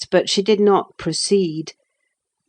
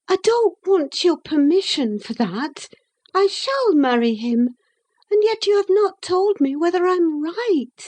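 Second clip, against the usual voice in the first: put-on lightly raised young woman's voice; young Catherine; 12 semitones higher than usual. A narrator's reading. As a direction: speak up as the restless young lady.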